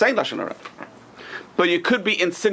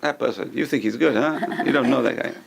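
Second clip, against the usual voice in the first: scoffing. Retold or imitated. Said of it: "people will point out their faults".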